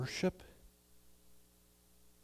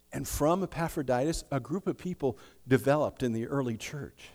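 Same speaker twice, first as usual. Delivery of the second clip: ordinary talk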